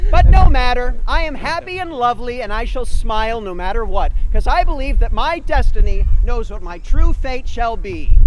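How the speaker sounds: bright, loud storybook heroine; sweet and hopeful, like a princess; chipper princess. Acted. Cinderella sings her optimism.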